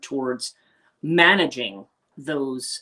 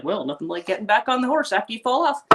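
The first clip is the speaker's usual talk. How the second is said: a light touch of her mom's dry voice; lightly voiced mother, wry; imitating mom; 7 semitones higher than usual. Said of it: "I remember my mom saying".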